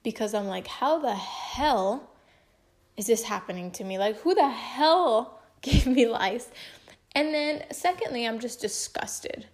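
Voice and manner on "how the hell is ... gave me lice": indignant venting, stressing the hell; retold anger. Telling viewers how she reacted to lice, retold anger. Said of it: "angry as freak".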